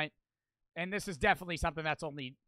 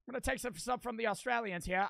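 higher-pitched mock British voice; bad British accent; 4 semitones higher, faster than usual. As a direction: steer back into a put-on British accent. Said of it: "that was a British accent".

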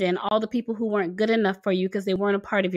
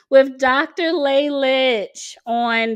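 slow, higher New York Italian accent on the names; 4 semitones higher, 4 dB louder, much slower than usual. Real, not acted. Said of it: "I start speaking like a New York Italian woman".

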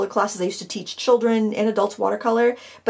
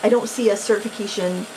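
stumbling over words. Real, not acted. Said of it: "if I sound kinda numb, but stumbly".

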